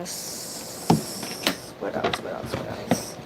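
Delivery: 2 whispered, searching her memory; 3 breathy murmur while she thinks it over; 4 a hushed aside to herself; 1 whispering to herself. Real, not acted.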